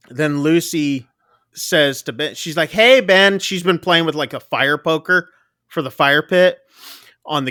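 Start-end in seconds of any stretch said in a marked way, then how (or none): 2.7-3.4 higher, louder imitated kid's call; retold singling-out call, pitched up; child calling out. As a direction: call out like a child wanting attention. Child calls for attention in retelling.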